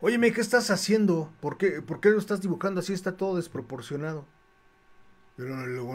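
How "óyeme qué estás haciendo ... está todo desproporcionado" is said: half-arrogant challenge. Retold or imitated. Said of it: "medio prepotente me dice".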